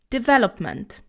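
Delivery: Development with stress on the second syllable, de-VEL-op-ment. Shown as a demonstration. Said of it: "the stress is on the we syllable".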